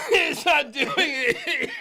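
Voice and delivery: words squeezed out through laughter; laughing. Real, not acted. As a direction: talk while laughing hard. Laughing while watching the clip.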